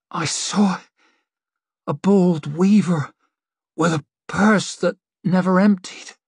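rough, hollow seer in a trance; strange hollow voice. Acted. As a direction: speak a vision from far away. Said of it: "voice sounded strange, rough, hollow".

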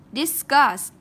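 "Discuss" loud, closing on s; emphatic model "Discuss" without a final t; S ending. Shown as a demonstration. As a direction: finish "Discuss" with a clear s. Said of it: "đây là chữ S".

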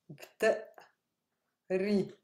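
بتقري drawn out slowly, syllable by syllable; slow and clear. Shown as a demonstration. Teacher modelling بتقري slowly for her students. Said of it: "two syllables are similar with inti".

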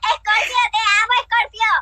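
chipmunk voice. Real, not acted. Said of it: "yo quiero sonar como una ardilla".

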